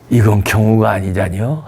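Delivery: put-on the movie line redone in a lightly Chungcheong accent; Chungcheong dialect version. Retelling the film scene for viewers, mild Chungcheong accent. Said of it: "충청도 버전으로 말씀드렸죠".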